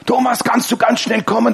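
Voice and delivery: imitated frightened caller. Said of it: "die machen mir Angst".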